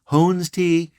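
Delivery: Hones Tea said as "hones", then "tea"; alternative mispronunciation. Shown as a demonstration. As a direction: misread Hones Tea with a long o, like "hones". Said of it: "the other could be pronounced".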